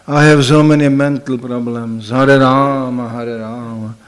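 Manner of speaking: low, fading moaned chant; lightly voiced sad chanter; mock troubled monk. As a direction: play a gloomy brahmachari.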